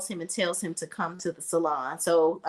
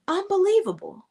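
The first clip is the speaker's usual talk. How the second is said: mock disbelief; 10 semitones higher than usual. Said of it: "And Maurice was like".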